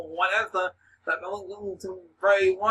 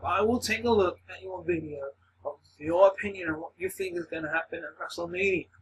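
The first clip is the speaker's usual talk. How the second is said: talking while out of breath; breathless, running out of air. Real, not acted. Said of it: "And I'm fucking out of breath".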